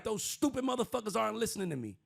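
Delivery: high, loud mock grumble; mock Trump. Host mimics Trump blaming Israel, high and loud. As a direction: complain like an annoyed boss. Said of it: "Trump's the next morning like".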